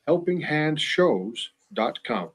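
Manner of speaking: slow, spelled-out web address; dictating a web address slowly; slow and clear. Shown as a demonstration. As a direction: read the address slowly, word by word. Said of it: "Again, helping hand shows plural".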